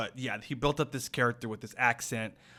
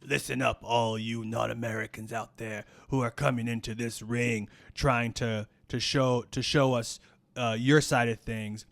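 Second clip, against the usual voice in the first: villain promo. Acted. Heel promo to foreigners.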